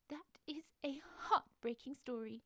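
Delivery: slow, hushed, moved; a mock-teary sniffle of sympathy; tearful crab man. Mister Krabs moved by the lost dragon's story, slow hushed tearful. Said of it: "dab his eyes with his handkerchief".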